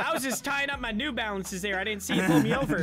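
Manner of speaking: lightly put-on folksy white-guy voice. Driver excusing himself to the officer, mock white voice. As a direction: play a harmless suburban driver, lightly. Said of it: "White voice again".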